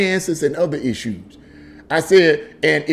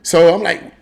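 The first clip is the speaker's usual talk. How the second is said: ordinary talk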